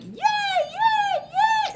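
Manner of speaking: very high, loud yays; high-pitched mock crowd hooray; crowd cheering. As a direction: imitate a squealing audience cheer. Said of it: "everyone's like".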